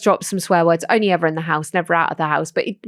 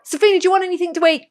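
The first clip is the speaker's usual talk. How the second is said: mum calling then sweet reply; 4 semitones higher than usual. Retold or imitated. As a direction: mimic mum calling up and a meek teen answering. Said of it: "Like this".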